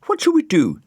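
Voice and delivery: put-on high, loud girlish hello; a little girl calling out while spinning; Florence. A narrator's reading.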